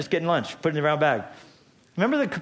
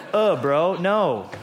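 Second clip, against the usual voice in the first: mock bro dismissal; 4 semitones higher, 4 dB louder, much slower than usual. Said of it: "And Jesus said".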